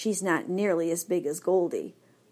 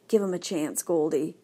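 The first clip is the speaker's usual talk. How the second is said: gentle voice; 2 semitones lower than usual. Acted. White dog calms Goldie about the newcomer, gentle. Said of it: "says in a gentle voice".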